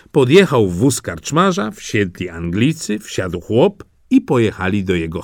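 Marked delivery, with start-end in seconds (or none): none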